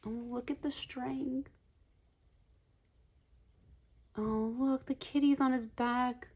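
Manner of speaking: soft, high-pitched coo; melting at the cuteness. Real, not acted. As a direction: coo softly over something adorable. Cooing over cute card pictures.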